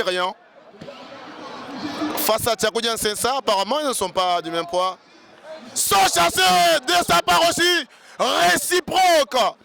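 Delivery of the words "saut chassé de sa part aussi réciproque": shouted play-by-play; excited shout. Real, not acted.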